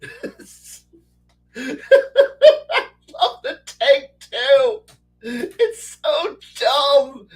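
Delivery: high-pitched laughter breaking through the words; laughing hard. Real, not acted. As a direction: laugh helplessly while getting the words out. Laughing fit over meme tank.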